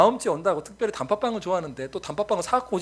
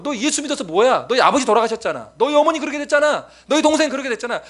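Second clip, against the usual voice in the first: mocking taunt; 5 semitones higher, 3 dB louder than usual. World mocking the believer.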